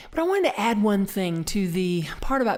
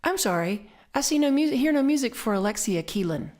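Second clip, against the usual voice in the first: imitating Alexa; 5 semitones higher than usual. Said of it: "I get something like this".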